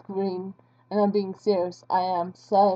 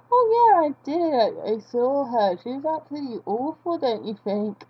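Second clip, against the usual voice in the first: mock gossiping reply; 3 semitones higher than usual. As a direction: play a viewer eagerly agreeing in gossip. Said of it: "did you see this really cringy YouTuber".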